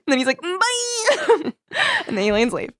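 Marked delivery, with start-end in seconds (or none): 0.4-1.5 very high, singled-out goodbye; mock farewell. Host acts out the alien leaving, high mock farewell. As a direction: pitch it way up as a comic exit.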